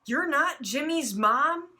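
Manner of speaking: put-on high, slow puzzled kid voice; high questioning voice. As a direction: ask it high and confused. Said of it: "he said questionably".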